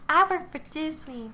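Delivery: mock proud boast. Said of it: "But maybe".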